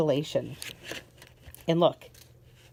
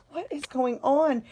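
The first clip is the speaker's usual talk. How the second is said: mock puzzled mom; 7 semitones higher than usual. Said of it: "And I'm like".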